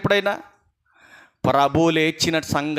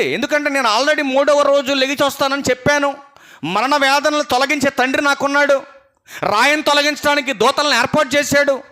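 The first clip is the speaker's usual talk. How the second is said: Jesus gently pleading with the weeping women, rising higher; voicing Jesus; 9 semitones higher, 3 dB louder than usual. Jesus consoles the weeping women of Jerusalem, lightly voiced and pleading. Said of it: "ఏమన్నాడు చూడండి ప్రభువారు అక్కడ".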